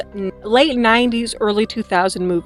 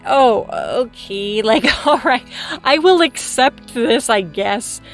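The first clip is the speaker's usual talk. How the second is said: resigned acceptance; 3 semitones higher, slower than usual. Retold or imitated. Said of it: "you're like".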